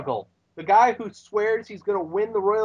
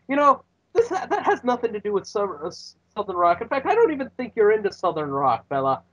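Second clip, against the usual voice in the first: Irish brogue; 5 semitones higher than usual. Retold or imitated. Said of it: "Sheamus says".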